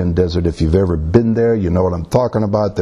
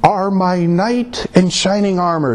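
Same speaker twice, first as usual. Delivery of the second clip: high-pitched voice of the adoring woman; high, drawn-out mock heroine, slowing at the end; imitated admiring bride; 11 semitones higher than usual. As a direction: put on the film wife's high voice for the bride. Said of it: "is what she's saying there".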